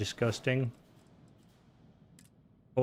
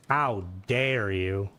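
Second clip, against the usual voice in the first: mock outrage; 6 semitones lower, much slower than usual. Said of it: "fuck you, Mona".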